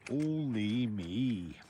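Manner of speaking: slow, drawn-out rueful only me; slow self-pitying groan of only me; rueful sigh. Real, not acted. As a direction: stretch it out, feeling sorry for yourself. Self-pitying after falling again.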